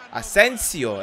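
"Ασένσιο" said firmly with stress on σέν; correct pronunciation. Shown as a demonstration. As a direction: pronounce "Ασένσιο" carefully, stressing the middle syllable. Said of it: "έτσι προφέρεται σωστά".

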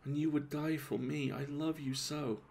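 a lightly voiced lovesick murmur. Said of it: "she murmured".

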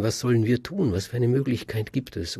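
alarmed crowd. A narrator's reading. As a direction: cry out as scared townsfolk. Frightened townspeople call out.

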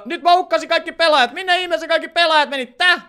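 high, loud bewilderment; hämmästynyt. Real, not acted. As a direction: raise pitch and volume as if baffled. Hämmästyy kadonneista pelaajista. (korkea, kova hämmästys)

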